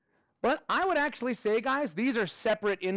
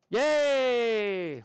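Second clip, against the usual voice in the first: cheer; 3 semitones higher, 4 dB louder than usual. Real, not acted. Cheering for National Hat Day.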